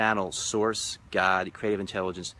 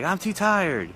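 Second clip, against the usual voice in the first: much higher mock weary whine; tired refusal; 10 semitones higher, 4 dB louder, slower than usual. Gentleman refusing his partner, high mock whine. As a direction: groan it out, refusing. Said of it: "And he's like".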